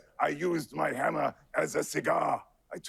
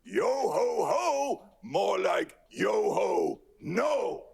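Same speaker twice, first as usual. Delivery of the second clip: put-on drunken pirate; 4 semitones higher, much slower than usual. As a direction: belt it like a tipsy pirate. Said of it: "drunken German pirate".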